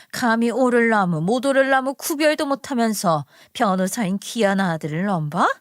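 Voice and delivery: a sneering, dismissive scoff at a lowly hairdresser; looking down her nose, mildly mocking; scoffing disbelief. Future mother-in-law scoffing at the hairdresser, sneering. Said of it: "콧방귀를 끼면서 어이가 없다는 듯이".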